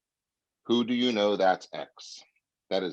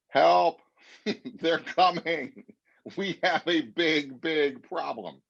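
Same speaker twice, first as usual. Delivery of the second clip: high, hammed-up panic, slowing down; mock panic; 7 semitones higher, slower than usual. Agent mocks a panicked seller, hammed-up panic. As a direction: play it like a comic alarm, higher. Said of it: "it's about".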